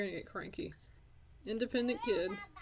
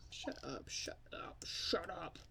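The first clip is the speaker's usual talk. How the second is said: hushed whisper; 4 semitones lower, 11 dB quieter than usual. Real, not acted. Hushed shushing.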